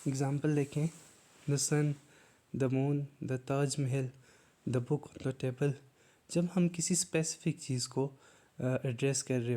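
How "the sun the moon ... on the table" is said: very slow, word by word, like dictating a definition; slow dictation. Shown as a demonstration. Teacher reading the definition slowly to students. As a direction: spell it out slowly for the class.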